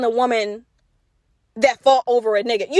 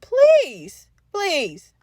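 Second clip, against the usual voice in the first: exaggerated, high-pitched dismissal; scoffing please; 5 semitones higher than usual. Real, not acted. Scoffing at imagined spouse trying it.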